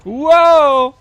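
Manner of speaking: high, loud surprised whoa; startled exclamation. Real, not acted. Sudden find in game.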